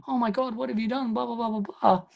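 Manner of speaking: high-pitched, hammed-up horror; mock shock. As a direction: fake a shocked discovery, trailing into filler. Imitates her feigned shock on camera.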